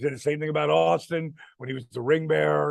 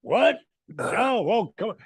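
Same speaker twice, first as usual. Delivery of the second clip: surprised; 6 semitones higher than usual. Retold or imitated. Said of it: "Pat's like".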